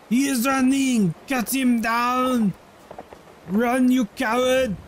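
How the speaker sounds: rally the troops, urge them to chase; battle cry. Acted. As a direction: commander yelling after a fleeing enemy.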